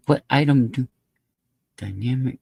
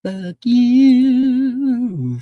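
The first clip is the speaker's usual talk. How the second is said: loud mock yell; 6 semitones higher, 7 dB louder than usual. Repeated insult, loud and high.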